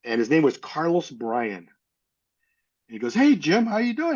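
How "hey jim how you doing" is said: high-pitched imitated hello; hailing someone, as retold; retold friendly greeting. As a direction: greet an old acquaintance, pitched well up. Retold greeting on job site.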